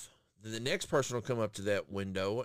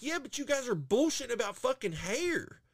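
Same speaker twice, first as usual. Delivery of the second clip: retold complaint; 10 semitones higher than usual. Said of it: "I was like".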